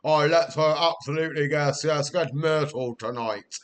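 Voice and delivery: put-on a light send-up of a posh girl; posh girl impression. Mimicking a posh student girl at the bar, mock-plummy. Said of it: "the girl went".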